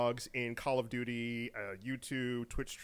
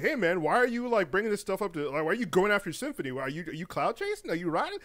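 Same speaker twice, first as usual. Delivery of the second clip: higher, pressing imitation of critics; accusing; 4 semitones higher, 3 dB louder than usual. Critics asking why he is going after Symphony, mock accusing. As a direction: fire off questions like an indignant fan, lightly acted.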